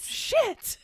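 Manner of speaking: whispered curse. Real, not acted. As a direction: hiss the word under breath. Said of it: "whispered curse".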